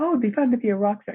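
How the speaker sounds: light, bouncy lilt. Speaker demonstrates the voice of their rock star thing: light, bouncy voice. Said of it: "kind of this light, bouncy voice".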